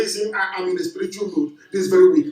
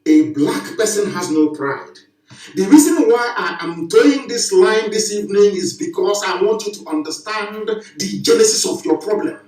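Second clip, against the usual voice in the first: normal talking voice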